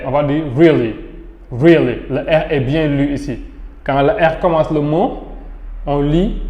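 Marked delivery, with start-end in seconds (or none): 0.6-2.0 "really" with a clearly sounded initial R; demonstrating the English R in "really"; R pronounced. Shown as a demonstration. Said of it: "on va lire le R".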